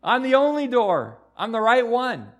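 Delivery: loud, high, slow proclamation; preaching at full force. Acted. Preacher voicing Jesus to the congregation, loud and slow. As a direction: declare it with full preaching power.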